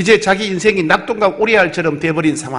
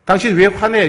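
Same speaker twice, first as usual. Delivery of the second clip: mock confrontational; 5 semitones higher than usual. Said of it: "이렇게 되면 싸움이 나겠죠".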